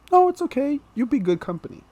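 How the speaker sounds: high, sweet old lady impression; high-voiced, reassuring little old lady. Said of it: "a very sweet lady".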